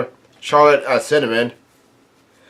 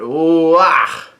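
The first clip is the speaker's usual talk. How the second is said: drawn-out "ooh, ah" in a half-hearted yell; mild mock holler; mock yelled cheer; 3 semitones higher than usual. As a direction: imitate a crowd's yell without full volume. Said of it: "Vito yell out".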